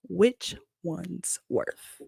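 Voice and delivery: dry mouth, slurred; tongue sticking, slowly; tongue tied. Real, not acted. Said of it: "tongue tied".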